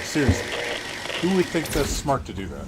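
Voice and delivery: can't believe anyone would be this dumb; exasperated outburst. Real, not acted. Gamer ranting to viewers about a felon, loud exasperated disbelief.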